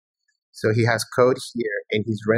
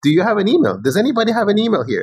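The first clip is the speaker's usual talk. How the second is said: high, loud, eager calls into the street; calling out to strangers; 12 semitones higher, 3 dB louder, faster than usual. Pretend. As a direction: call out to everyone around, hoping someone has one. Calling around asking for email.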